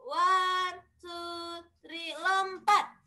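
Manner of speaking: high, slow coach countdown; gym coach. Acted. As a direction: count them into the jump like a coach. Counting kids into the jump. (hitungan pelatih senam yang lambat dan tinggi)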